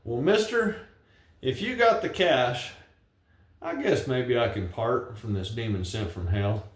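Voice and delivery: reciting a rhyming ballad; poem recitation. Acted. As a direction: tell it like a cowboy poem at a gathering. Recites his cowboy poem.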